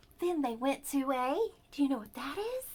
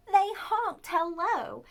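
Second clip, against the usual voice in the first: honking voice; 7 semitones higher, 5 dB louder, slower than usual. Pretend. Story geese honk hello.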